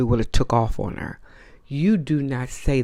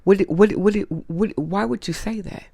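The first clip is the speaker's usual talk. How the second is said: confronting question; 6 semitones higher than usual. Retold or imitated. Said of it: "and say".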